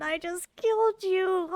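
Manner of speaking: on the edge of tears, voice catching; barely holding back crying; tearful. Real, not acted. Gamer after killing Delilah, teary and cracking. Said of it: "I'm about to start crying".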